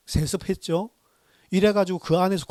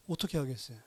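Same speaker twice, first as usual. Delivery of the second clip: ordinary talk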